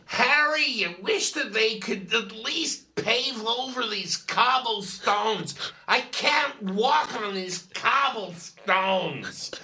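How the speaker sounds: shrieked-out "Harry" then a drawn-out complaint; complaining American tourist. Retold or imitated. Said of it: "the terrible American tourists".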